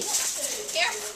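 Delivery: near whisper, slow and careful; soft, unvoiced warning. Real, not acted. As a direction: breathe the warning gently. Warning the dog softly.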